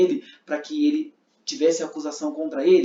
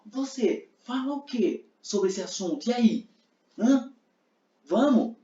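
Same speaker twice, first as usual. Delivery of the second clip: high, pushy questions; taunting; 6 semitones higher, slower than usual. Shown as a demonstration. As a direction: goad him to answer. Provocando Jesus. (provocação insistente)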